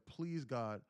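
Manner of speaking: pleading with God, acted out; impassioned bargaining prayer in a storyteller's voice; retold desperate prayer. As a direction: beg forgiveness urgently, swelling and falling. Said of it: "he said he got on his knees".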